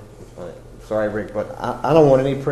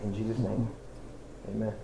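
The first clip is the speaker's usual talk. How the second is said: earnest spoken prayer, rising and falling; fervent prayer. Acted. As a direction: pray aloud for the congregation. Leads the congregation in prayer.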